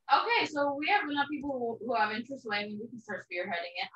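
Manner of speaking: tinny, like through a tin can; boxed-in, tinny speaker sound. Real, not acted. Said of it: "you sound like you're in a tin can".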